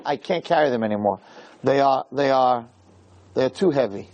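low, slowing admission of defeat; weary surrender. Retold or imitated. Moshe telling Hashem the people are too heavy, weary. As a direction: let the pitch sink, as if giving up. Acts Moshe worn down by burden.

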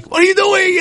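high, yelling at another driver; angry shout. Retold or imitated. Teacher acting a driver who got cut off, with an angry shout. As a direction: snap it out way up high.

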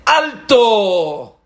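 sharp high shout of halt; commanding stop. Acted. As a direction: stop them in their tracks. Rabbi halts the students.

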